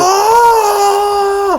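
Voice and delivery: surprised yelp. Real, not acted. Sudden outburst at the price.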